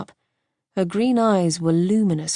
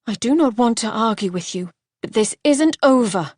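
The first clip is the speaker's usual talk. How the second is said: irate; 4 semitones higher, 4 dB louder than usual. Acted.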